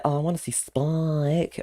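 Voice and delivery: high, drawn-out Drusilla imitation; mum's Drusilla impression. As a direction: imitate mum doing a slow, high Drusilla. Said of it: "my mum's impression of Drew".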